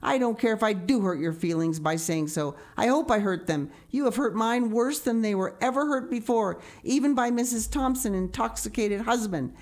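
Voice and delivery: put-on wounded child's furious rant; vehement. A narrator's reading. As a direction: pour out the hurt and anger vehemently. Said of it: "she repeated vehemently".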